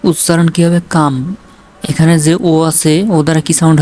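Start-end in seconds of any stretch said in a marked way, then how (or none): 0.9-1.1 "কাম", its vowel an open a; o sounded as "a". Shown as a demonstration. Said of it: "আ sound হয়েছে".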